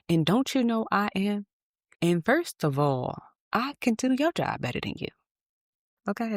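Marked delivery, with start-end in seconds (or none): 0.1-5.1 high, huffy mock arrogance; haughty outrage. Rejected job seeker boasting at interviewer, huffy. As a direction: talk down with wounded pride. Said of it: "That's how I was talking".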